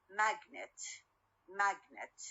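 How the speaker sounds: "magnet" with the stress on MAG; stress on first syllable. Shown as a demonstration. Teacher giving an example of stress, MAG stressed in "magnet". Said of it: "الستريس على أول syllable".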